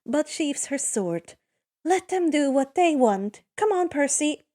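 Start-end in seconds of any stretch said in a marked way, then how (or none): 1.8-4.4 ordering. Acted. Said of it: "she orders".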